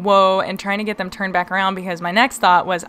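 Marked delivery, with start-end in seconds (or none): 0.0-0.4 retold yell. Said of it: "and I'm yelling".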